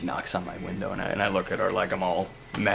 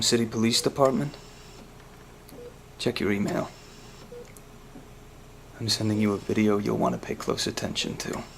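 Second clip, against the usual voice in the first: menacing threat; 6 dB louder than usual. Acted. Threatening phone message to Gordon.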